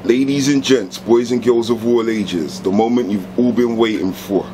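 announcer voice. Pretend.

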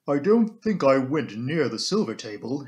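lightly voiced housekeeper, slow and deliberate; composed housekeeper. Housekeeper answering the inspector about the silver table, composed. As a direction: take your time, measured, as a housekeeper under questioning.

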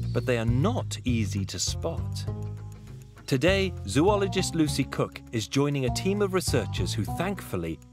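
calm documentary narration; nature documentary. A narrator's reading. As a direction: tell it like a wildlife film. Documentary narrator over music.

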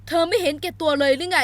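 rising, loud เธอไม่เห็นแก่ตัวเลยหรือไง; retort question. Acted. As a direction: throw เห็นแก่ตัว back with a rise. Hero throws it back.

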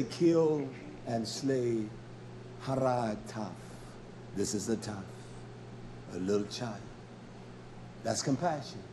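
very low and soft, with long pauses; hushed solemn preaching. Acted. Preacher showing a little child under God's order, hushed. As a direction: drop right down and let each phrase sit.

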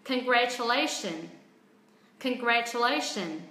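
picking up speed. Shown as a demonstration. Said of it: "tăng tốc".

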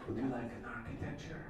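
low, soft put-on suave voice; raspy smooth introduction. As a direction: offer it like a cool, raspy charmer. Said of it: "put a little raspiness in that voice".

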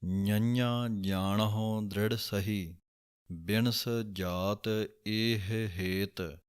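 slow, careful Gurbani line reading; slow recitation. Shown as a demonstration. Teacher reciting a scripture line slowly. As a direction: recite each word slowly and clearly. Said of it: "ਇਸ ਦਾ ਉਚਾਰਨ ਇਸੇ ਤਰ੍ਹਾਂ ਹੀ ਹੈ".

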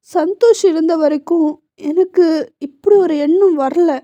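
a touch of tearful voice; crying son. Acted. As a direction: speak through light sobs to his mother. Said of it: "அழ ஆரம்பித்தான்". (அம்மாவிடம் லேசாக அழுதுகொண்டே பேசும் மகன்)

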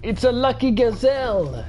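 high delighted squeal at a rare find; excited cry. Real, not acted. Player spotting a rare gazelle, delighted high cry. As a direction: announce the lucky find with glee.

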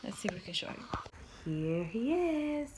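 hushed whisper so as not to wake him. Real, not acted. Whispering beside sleeping baby.

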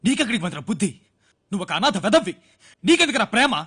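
bitter self-scolding. Acted. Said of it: "Madan, cool down".

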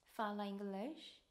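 very slow "Fala inglês?" with a rising end; slow demo question. Shown as a demonstration. Teacher modelling a question for travellers, very slow. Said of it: "이렇게 물어보시면 됩니다".

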